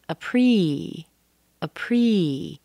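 "appre-" with a long held EE ending; long E sound. Shown as a demonstration. Teacher shows the stressed vowel, long E. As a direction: stretch the second syllable of "appre-" as PREE. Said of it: "It has an E sound".

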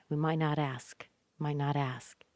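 quick "might not", weight on a long "ask"; fast "might not", big "ask". Shown as a demonstration. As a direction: hurry through "might not", open out on "ask". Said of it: "Might not is very fast. Ask is very big".

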